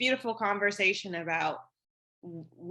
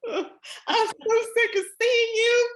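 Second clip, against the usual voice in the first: much higher, slow, laughing through it; laughing exasperation; 14 semitones higher, 5 dB louder, slower than usual. Pretend. Woman telling her period she's sick of it, laughing. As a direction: groan it out while laughing.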